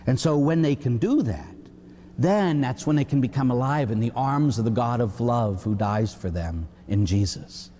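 usual speaking voice

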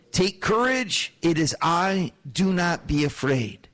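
slow, calm reassurance to frightened men; steady them, slowly and gently; reassuring Jesus. Retold or imitated. Jesus calming the terrified disciples in the boat, slow and reassuring.

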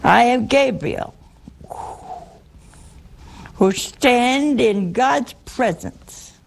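slow, solemn angelic announcement; grand angel voice. Retold or imitated. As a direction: proclaim it like a mighty angel. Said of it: "I think that's how he said it".

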